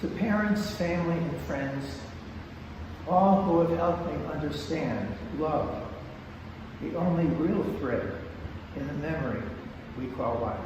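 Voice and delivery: measured dedication, pausing between phrases; poem reading. Acted. Poet reading his book's dedication to an audience, measured recital.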